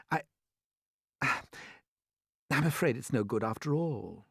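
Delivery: slow, sighing, defeated; murmured despair. A narrator's reading. James giving up on the escape, sighing slowly. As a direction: let it sink in with a sigh. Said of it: "James murmured, shaking his head".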